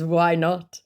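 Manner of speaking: put-on scammer nonchalance. Acts scammer's reply.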